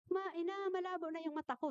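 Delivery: a hint of a small boy calling mother; little boy's voice. Bitten child tells his mother his eyes are blurry, lightly childlike. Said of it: "Nung sinabi ng bata na".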